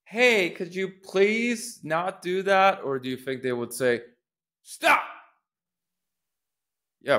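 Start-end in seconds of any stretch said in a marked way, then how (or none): 0.0-2.8 high, slow, meek plea to stop; timid polite request. Shown as a demonstration. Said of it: "bark an order". 4.6-5.0 high, loud, sharp command of "Stop"; barked order. Shown as a demonstration. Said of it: "bark an order".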